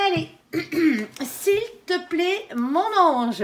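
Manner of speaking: high, slow, sweet coaxing of a spirit; drawn-out plea to her guardian angel; coaxing sing-song plea. Real, not acted. Reader coaxes her angel to reveal a card, slow sing-song.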